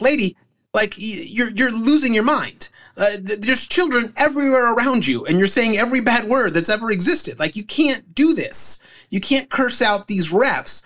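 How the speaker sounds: high, pleading voice, slowing at the end; exasperated official. Retold or imitated. Official telling the screaming mom to stop, mock exasperated and high. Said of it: "He's like".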